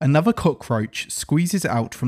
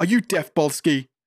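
heated, agitated, riled-up and worked up; 4 semitones higher than usual. Stuck behind a door, snapping at the one trying to open it, agitated. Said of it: "calm down".

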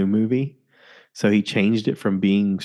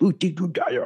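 put-on weird voice, much higher; 8 semitones higher than usual. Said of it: "he's talking in that weird voice".

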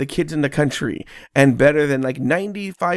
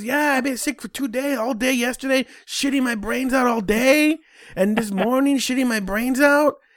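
pitched-up East LA gangster voice; 8 semitones higher than usual. Retelling what a sick dad said, imitating an east la gangster voice. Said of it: "Why does he sound like an East L A gangster?".

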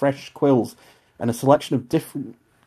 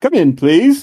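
stern woman, very loud and high; 5 semitones higher, 9 dB louder than usual. Narrator voices a woman calling from inside the study, stern woman's voice. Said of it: "you can hear a stern woman's voice call".

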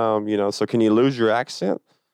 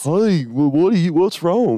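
put-on country hillbilly accent, pitched higher; 8 semitones higher, 4 dB louder than usual. Retelling how a nurse talked: imitating a country redneck accent. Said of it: "He's a country redneck, and he's just like".

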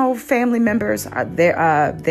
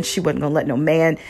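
ordinary talk, nothing marked

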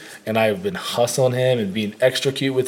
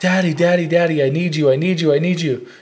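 put-on child voice, faked distressed crying out; 4 semitones higher than usual. Retelling how a child called from outside while cooking: imitating a child's fake screaming. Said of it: "he starts fake screaming, but it was kinda real sounding".

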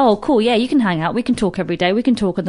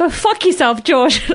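mock, heated, yelled shouting outburst; 7 semitones higher than usual. Retelling shouting at a friend who was laughing at them, retelling a shout. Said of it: "And I shouted at him".

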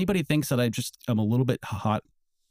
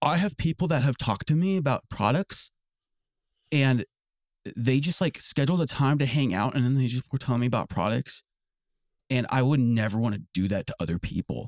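ordinary talk

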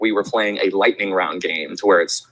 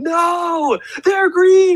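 put-on very high, jeering, booing crowd yell; 3 dB louder than usual. Retelling how the softball crowd booed the announcement, retelling a crowd yelling. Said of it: "They're yelling".

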